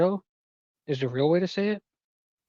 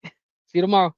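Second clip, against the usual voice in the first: Eddie voice; 5 semitones higher, 5 dB louder, much faster than usual. Retold or imitated. Voicing Eddie.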